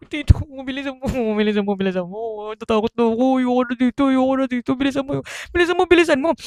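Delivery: hushed, fearful begging, speeding up at the end; mock scared pleading. Nephew on the dead motorbike begging uncle, scared. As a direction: beg him to hurry, frightened.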